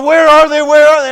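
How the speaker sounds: startled, hunting for the source; alarmed. Acted. The man hears screaming and cries out, alarmed.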